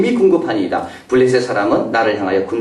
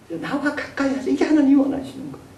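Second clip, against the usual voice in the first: God's voice; 13 semitones higher, 4 dB quieter than usual. Acted. Repeated higher, as God.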